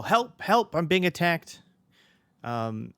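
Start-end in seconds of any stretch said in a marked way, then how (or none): 0.0-1.6 high, loud mock yelling; yelled cry for help. Game master voicing the attacked father, yelling. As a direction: yell out for help, pitched way up. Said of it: "He's gonna yell".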